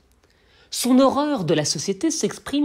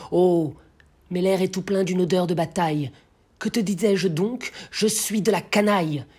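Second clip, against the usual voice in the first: roused, declaimed verse with swelling cries; poem recitation. Acted. The blacksmith declares himself of the rabble, impassioned declamation. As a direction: break out of the reverie into oratory.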